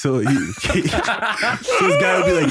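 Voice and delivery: cracking up mid-story; laughing. Real, not acted. Laughing as he tells friends about the phone box.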